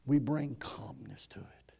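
slow, low near-whisper; hushed calm. Real, not acted. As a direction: drop to a slow hush. Demonstrating calm amid shaking.

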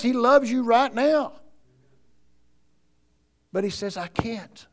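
loud, high, fervent sermon delivery; full-force preaching. Acted. Preacher exhorting the congregation about doubt, loud and high. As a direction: drive it home from the pulpit. Preaching climax on God's love.

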